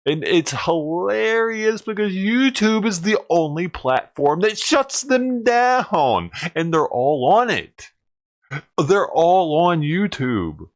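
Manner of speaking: ranting that YouTube shuts them down; incredulous. Real, not acted. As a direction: stretch it out in mocking disbelief.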